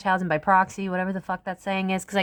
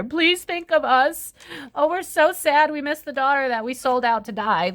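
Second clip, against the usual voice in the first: mock pleading parents; 7 semitones higher than usual. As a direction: whine it like fake grieving family begging for pity. Mocking Madeleine McCann's family pleading.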